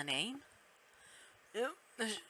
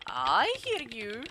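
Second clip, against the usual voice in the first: slow, badly faked German accent; failed German accent; 3 semitones higher, 4 dB louder, slower than usual. Doctor answers the visiting police, shaky attempt at German accent. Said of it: "I cannot do a German accent".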